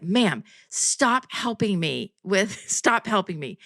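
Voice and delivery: slow, deliberate retold scolding; mock exasperation. Nail tech at breaking point with his customer, mock-exasperated. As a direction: space out each word, mildly fed up. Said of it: "this is the breaking point for him".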